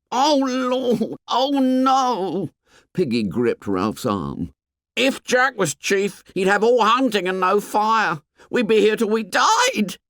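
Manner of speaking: high panicked squeak; squeaky. Acted. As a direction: voice running up to a squeak. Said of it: "His voice ran up to a squeak".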